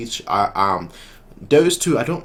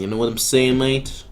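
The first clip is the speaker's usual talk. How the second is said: badly faked Brooklyn accent; half-hearted mock Brooklyn accent. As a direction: attempt a tough-talking Brooklyn accent. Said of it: "like a Brooklyn accent".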